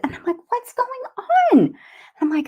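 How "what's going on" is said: high, drawn-out alarmed cry; retold panic. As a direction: re-enact a frantic demand, pitch leaping and louder. Mother panicking at daughter's seizure.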